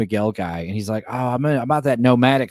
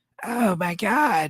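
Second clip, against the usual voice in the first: raspy, grating, annoying, pitched-up voice; 9 semitones higher, 3 dB quieter than usual. Mocking how a woman on a show talks, annoying raspy voice. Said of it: "very annoying cocaine raspy voice".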